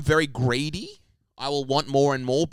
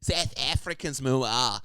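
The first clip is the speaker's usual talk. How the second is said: South African accent. Shown as a demonstration. Co-host contrasts the two accents, broad South African accent. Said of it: "more of an R sound with it".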